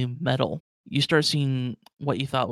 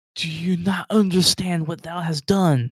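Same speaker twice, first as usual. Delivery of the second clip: loud, high, frantic, losing-it freaking-out outburst; 5 semitones higher, 5 dB louder than usual. Voicing a character who wakes from a stasis pod and throws things around: freaking out. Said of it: "he's just like freaking out".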